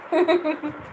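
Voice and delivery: brief light laugh; short chuckle. Real, not acted. Parent amused while chatting with the baby, short chuckle. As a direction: let out a little chuckle.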